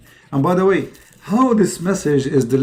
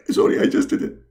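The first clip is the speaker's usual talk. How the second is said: whispered sheepish confession; guilty whisper; 13 semitones higher, faster than usual. Acted. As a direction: whisper it, caught out. Muhammad caught yawning.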